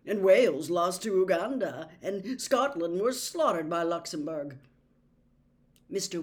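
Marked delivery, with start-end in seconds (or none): 0.0-4.6 louder, lightly voiced disgusted fan; Charlie's voice. A narrator's reading. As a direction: grumble through the scores. Charlie grumbling about results.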